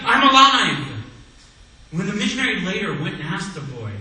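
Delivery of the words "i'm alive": joyful shout. Retold or imitated. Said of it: "And he just kept shouting".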